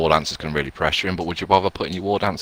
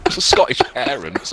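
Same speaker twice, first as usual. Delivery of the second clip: put-on botched slow Scottish accent; a failed attempt at Scottish, slowed down; 3 semitones higher, much slower than usual. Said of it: "I was gonna do a Scottish accent then".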